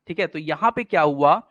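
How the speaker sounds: usual speaking voice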